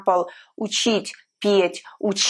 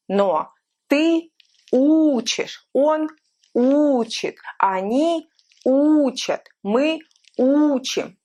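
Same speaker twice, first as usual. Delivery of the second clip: учишь, учит, учат, учим said higher with stress on у; shifting stress demo; 4 semitones higher, slower than usual. Shown as a demonstration. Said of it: "I want you to pay attention at the stress".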